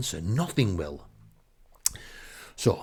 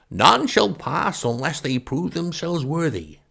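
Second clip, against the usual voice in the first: high, loud, grandly theatrical knight; chainmail knight; 7 semitones higher, 5 dB louder than usual. Acted. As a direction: proclaim it like a pompous gatekeeper. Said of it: "has a Cornish accent thicker than clotted cream".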